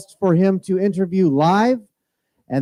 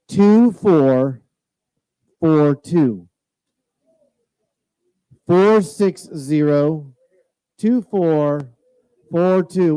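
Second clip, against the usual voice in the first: raffle caller; 3 dB louder, much slower than usual. Real, not acted. Announcing winning raffle number.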